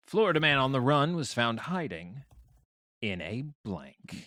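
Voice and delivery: headline read slowing and softening at the end; news announcer. Acted. Host repeats headline for players, news announcer voice. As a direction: announce it, then draw out the blank. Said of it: "news announcer voice".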